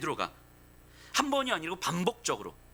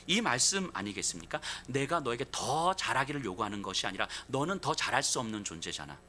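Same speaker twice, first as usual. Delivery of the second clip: usual speaking voice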